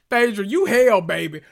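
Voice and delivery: loud, high teasing call; excited exclamation. Real, not acted. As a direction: cry out in delight. Calling out Phaedra.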